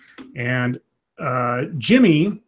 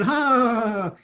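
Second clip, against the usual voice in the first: mocking laugh; 7 semitones higher than usual. Retelling the second punch, high mock laughter. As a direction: mimic a villain laughing after a punch. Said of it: "starts laughing at him".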